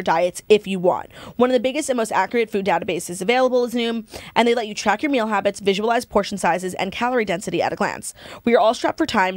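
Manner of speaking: scripted podcast ad voice; steady, presentational ad delivery; sponsor ad read. Acted. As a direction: read the sponsor copy to listeners. Reads sponsor copy.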